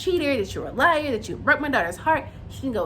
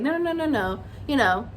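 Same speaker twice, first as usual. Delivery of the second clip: lightly voiced mom calming him down; a hint of a mother cutting off a rant; imitating the mom. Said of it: "She does this, like".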